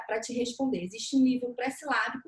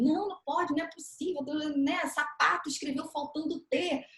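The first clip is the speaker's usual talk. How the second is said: desperate parent; 3 semitones higher than usual. Retold or imitated. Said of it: "o pai também fica des-, desesperado".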